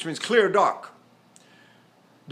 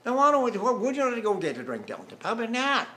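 swooping, sing-song British mate; mock British accent; 4 semitones higher than usual. Shown as a demonstration. Teacher playing a mate suggesting a drink, swooping British accent. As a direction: greet a mate in exaggerated British tones. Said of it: "How shall I talk?".

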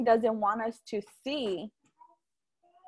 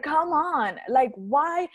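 retold fed-up plea, pitched up; angry exasperation; 4 semitones higher, much slower than usual. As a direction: complain at the universe, half in earnest. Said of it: "And I'm just angry".

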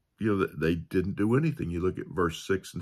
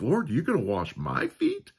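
higher, mock humble question; false humility; 6 semitones higher than usual. Preacher mimicking Peter's false humility, mildly mock humble. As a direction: fake modesty, lightly voiced. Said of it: "impression of false humility".

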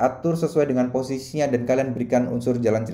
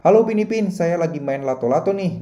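cartoon dubbing voice; 3 semitones higher than usual. Shown as a demonstration. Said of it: "Contoh ini, ya, saya akan tahan".

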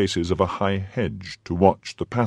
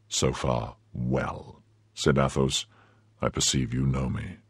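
Athos; 5 semitones lower than usual. Acted. Athos confronts Milady.

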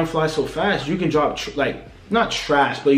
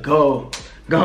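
Splurge. Retold or imitated. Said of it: "he be killing that go shit".

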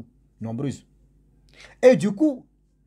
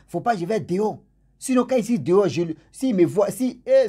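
higher, worked-up retelling of her complaint; agitated complaint; 3 semitones higher than usual. Retold or imitated. Woman tells the man of God about her night visitor, agitated. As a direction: voice the troubled woman, pitched up and insistent.

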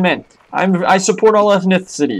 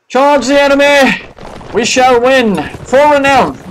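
battle cry; 5 semitones higher than usual. Pretend. Battle cry leading troops.

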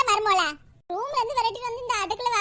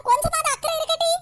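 mock scolding; 5 semitones higher than usual. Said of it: "எல்லாம் நடிப்பு".

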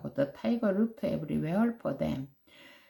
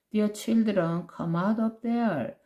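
higher coaxing sweet call; 4 semitones higher, much slower than usual. Acted. Tiger to children in the well, sweet coaxing. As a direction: lure them out sweetly. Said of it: "in a sweet voice".

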